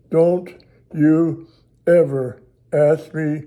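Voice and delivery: slow, pointed warning, a hint of a scolding wife; stern scolding. Wife at the restaurant warning her husband, slow mock stern scold. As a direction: lay down the law, slow and firm.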